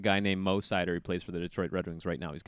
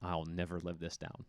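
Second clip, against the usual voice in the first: worried inner voice; 3 semitones lower, 8 dB quieter than usual. Retold or imitated. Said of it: "I'm like".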